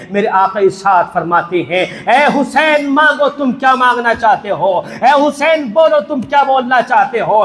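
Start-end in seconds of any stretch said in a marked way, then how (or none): 2.1-7.4 preaching. Acted. Prophet's voice in the sermon.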